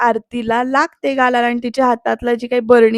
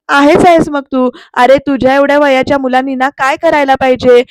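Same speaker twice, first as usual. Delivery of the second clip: louder, cutting reply; angry lecture; 5 dB louder than usual. Retold or imitated. Aarti lecturing Pruthvi, loud and cutting. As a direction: hammer home the point.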